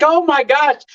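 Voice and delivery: a dad spotting his favourite sauce again; delighted gasp of discovery; excited. Retold or imitated. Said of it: "And I was so excited".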